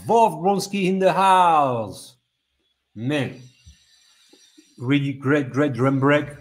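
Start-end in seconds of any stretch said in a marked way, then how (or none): 0.1-2.1 high, loud shout-out stretched at the end; hype announcement. Real, not acted. Host shouting out a producer, high hyped announcement. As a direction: announce the artist to a roaring room.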